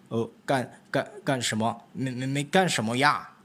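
stammering cat voice, caught off guard; flustered fat cat. Acted. Fat cat stammering out his name to the mice, flustered. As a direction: stumble over the words like a caught cat.

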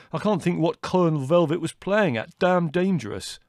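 high, loud, blustering complaint; indignant. A narrator's reading. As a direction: bluster in disapproval. Leslie indignant at the colonel.

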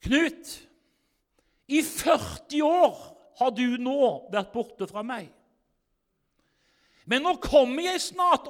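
booming, high, loud divine call, drawn out at first; God's voice thundering a final summons. Retold or imitated. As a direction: call him home like a voice from heaven. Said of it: "så sier røsten".

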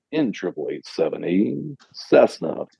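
pilot radio voice. Pretend. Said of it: "Total Pilot voice too".

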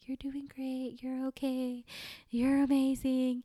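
gentle, encouraging mother; reassuring. Retold or imitated. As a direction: soothe her through it. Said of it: "She was holding my hand like".

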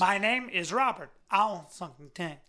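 slow, lightly nasal robot. Acted. Playing Robert, slow lightly nasal robot. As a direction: pinch it through the nose like a broken robot. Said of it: "robot with a nasal problem".

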